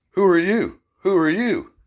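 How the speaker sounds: hammered-up cop demanding a name; demanding yell. Retold or imitated. Officer jabbing him, demanding name.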